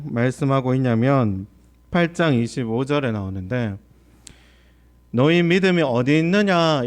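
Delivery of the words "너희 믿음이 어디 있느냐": a light scolding question, stress on 믿음이; understated reproach; mild rebuke. Acted. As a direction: gently scold the disciples. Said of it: "이렇게 꾸짖고 있어요".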